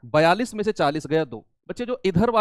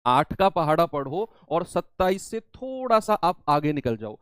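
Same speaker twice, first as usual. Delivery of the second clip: slow repeat. Shown as a demonstration. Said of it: "teacher repeats the instruction slowly".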